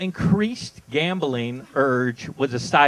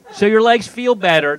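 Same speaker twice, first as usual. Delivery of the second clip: ad tagline; 5 semitones higher, 6 dB louder than usual. Shown as a demonstration. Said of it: "This is their tagline".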